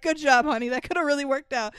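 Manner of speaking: dry sarcastic praise; mock sarcastic. Ryan Gosling mocks his daughter's failed plan, sarcastic. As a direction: congratulate her while rolling your eyes. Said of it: "Ryan Gosling's like".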